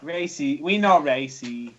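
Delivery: put-on slow Japanese accent. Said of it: "in your best Japanese accent".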